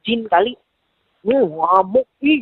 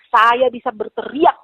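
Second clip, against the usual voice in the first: mild, drawn-out mock yell; retold yell; slower than usual. Woman retelling her threat to Habib, mild mock yell. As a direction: stretch it like a restrained shout. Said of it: "saya teriak".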